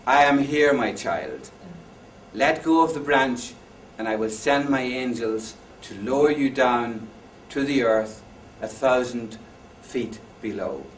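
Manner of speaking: put-on booming voice with a light Irish accent. Voice from heaven answers the man, lightly Irish and loud. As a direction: play God from the heavens, with a hint of Irish. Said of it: "with an Irish accent".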